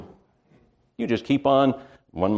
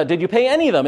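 pressing banker; 6 semitones higher, much faster than usual. Retold or imitated. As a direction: press him like a banker demanding answers. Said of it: "He says".

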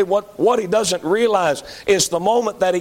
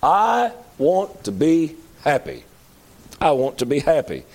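her mantra; 3 semitones lower than usual. Retold or imitated. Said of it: "You know what her mantra is?".

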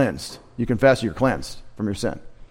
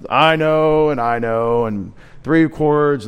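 mocking pop lyric; 2 semitones higher, slower than usual. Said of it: "That would be American music today".

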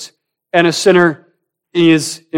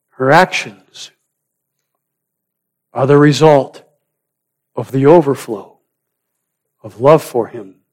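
solemn preaching; 4 dB louder than usual. Real, not acted. Preacher contrasts her love with Simon's, solemn. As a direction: weigh each phrase, leaving silence after it. Preacher weighs out the central point.

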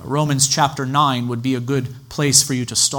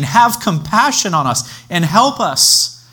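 slow, higher, pleading call for help; imploring plea; 6 semitones higher, 4 dB louder than usual. Acted. Father begging Jesus for his son, slow pleading cry. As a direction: beg for mercy, drawing the words out. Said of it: "he implored Jesus".

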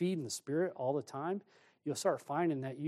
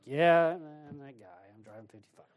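sheepish admission; 3 dB louder than usual. Retold or imitated. Admits being slow driver.

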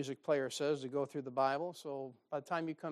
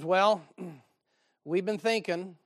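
slow, louder, pompous quote with a throat-clear; hamming up his self-important announcement; mock solemn member; 3 semitones higher, 6 dB louder than usual. Preacher mimics the man leaving his church, pompously slow.

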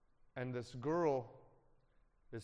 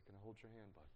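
gentle hushed question; 4 semitones lower, 17 dB quieter, faster than usual. Retold or imitated. Comforting grieving friend Jonathan.

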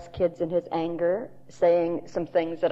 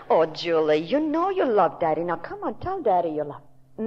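pleading coax. Retold or imitated. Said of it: "He very wisely did not say that".

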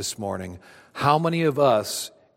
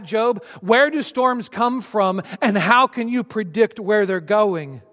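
higher, louder challenging voice of God; God questioning Job; 5 semitones higher, 3 dB louder than usual. Acted. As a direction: press him with question after question.

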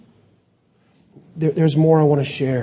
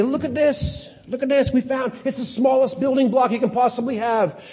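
higher, lightly voiced excited scientist; 8 semitones higher than usual. Preacher mimics scientists over a microscope, high excited voice. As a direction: play a scientist thrilled at the microscope.

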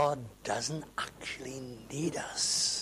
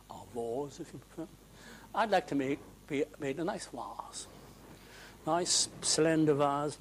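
soft, half-whispered polite request of a lump of clay; whiny clay voice; 7 dB quieter than usual. Pretend. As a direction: play the fussy clay asking nicely. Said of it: "and the clay says".

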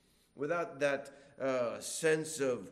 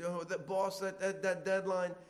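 office grumbling; 4 semitones higher than usual. Retold or imitated. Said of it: "in offices".

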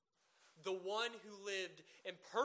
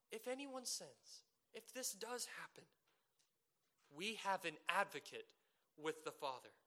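gentle pastoral tone. Retold or imitated. John reassuring his little children, in a gentle pastoral tone. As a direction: reassure a worried flock gently. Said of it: "John ushers a gentle tone".

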